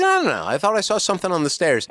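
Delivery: high, quick insistent mom. Retold or imitated. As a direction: insist like a fussy mother. Mother voiced in story.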